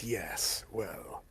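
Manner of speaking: low, slow whispered hobgoblin voice; whispery hobgoblin. Acted. Hobgoblin warning the party about goblins, low whisper. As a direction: hush it like a sly creature.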